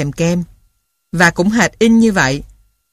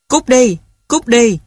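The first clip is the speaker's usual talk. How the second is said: shrill bird squawk; 5 semitones higher, slower than usual. Acted. Mynah bird chasing the boy away, shrill squawk. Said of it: "Giọng nó choe choé".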